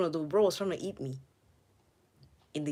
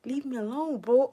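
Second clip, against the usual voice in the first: shout; 6 semitones higher, 3 dB louder than usual. Real, not acted. Shout at chasing snake.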